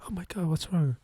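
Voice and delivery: mock pleading boyfriend. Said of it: "I can see a guy saying this".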